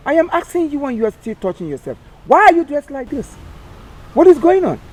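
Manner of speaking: loud, rising scolding demand; angry scolding. Acted. Captain loudly scolding the recruit over his dress. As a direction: bark the questions at him.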